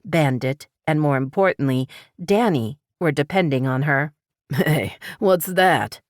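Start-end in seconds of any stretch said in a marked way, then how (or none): 4.5-6.0 lightly voiced man, slow and startled; a stranger caught off guard by the tire iron. A narrator's reading. Stranger startled as Paris raises the tire iron, lightly voiced. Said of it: "his tone startled".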